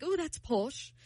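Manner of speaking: amateur British imitation; British accent. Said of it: "He's like".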